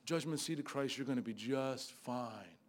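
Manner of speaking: mock soothing reassurance. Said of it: "If I just say".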